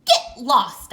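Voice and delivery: loud shoo; loud grumpy leprechaun shooing; shouting. Acted. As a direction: shout the dog away. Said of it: "I shouted".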